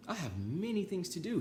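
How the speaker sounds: high, eager Toad; storybook Toad character voice. Acted. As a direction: read Toad's line bright and high. Toad voiced in read-aloud story.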